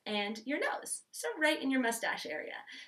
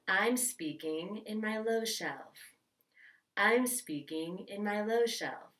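slow and a bit lower, relaxed low register; low shelf voice; 4 semitones lower, 4 dB quieter, slower than usual. Shown as a demonstration. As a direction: settle the voice down low and easy. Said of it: "go ahead and say this".

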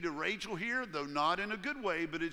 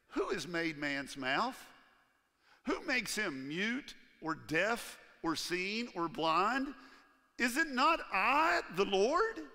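solemn voice of the Lord; 2 semitones higher, 4 dB louder, slower than usual. Retold or imitated. God answering Moses, slow and solemn, building louder. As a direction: speak slowly as God, each question heavy.

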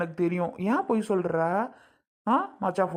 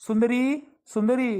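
raised, rising call of a name; name called with a higher, lilting rise; 4 semitones higher, slower than usual. Acted. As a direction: call someone out of the house. Calling Sundari to come out.

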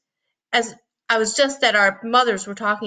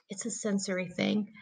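much softer, gentle explanation; softly; 12 dB quieter than usual. A narrator's reading. Jack's mom softly explaining to Mom, quiet. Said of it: "Jack's mom said softly".

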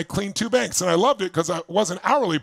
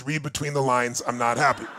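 lower, dry inner voice calling the bluff; a hint of a skeptical brain talking back; 5 semitones lower than usual. The brain answering the affirmation, lightly voiced skeptical retort. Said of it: "and your brain goes".

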